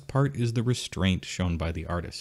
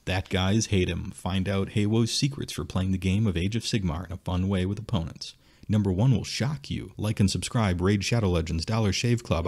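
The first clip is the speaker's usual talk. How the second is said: clickbait video narrator. Pretend. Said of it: "I can see it now".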